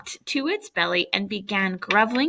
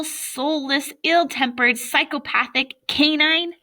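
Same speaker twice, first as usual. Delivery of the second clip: angry tirade; 3 semitones higher than usual. Acted. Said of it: "such a tirade".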